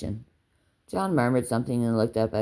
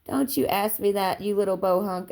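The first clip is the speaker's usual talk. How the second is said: mock scolding; 7 semitones higher than usual. A narrator's reading. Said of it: "giving him a mocking, a mock spanking".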